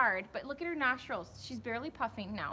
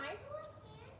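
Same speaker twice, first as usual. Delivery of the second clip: put-on much higher, softer little-kid voice; squeaky toddler reply; child voice; 12 semitones higher, 11 dB quieter than usual. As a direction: voice the toddler whining back.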